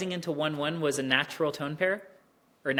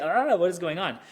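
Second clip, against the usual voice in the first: louder, mock bewildered outburst; mock confusion; 5 dB louder than usual. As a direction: act thrown by the jumble. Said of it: "it's just kinda like".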